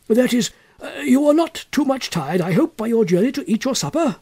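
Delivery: put-on high-pitched elderly man gushing a welcome; delighted old cousin. A narrator's reading. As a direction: greet the orphan boy with fussy delight. Abney keeps asking the boy.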